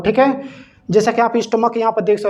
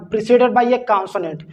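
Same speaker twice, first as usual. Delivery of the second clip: slow dictation; much slower than usual. Shown as a demonstration. Reading rule slowly from notes.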